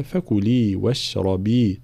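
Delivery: slow chanted recitation; recited verse. Shown as a demonstration. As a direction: recite it carefully, slowly. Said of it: "في قوله تعالى".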